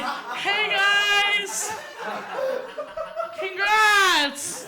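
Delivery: put-on a drunk buddy congratulating the couple; cheery drunk friend. Drunk friend cheering while peeing.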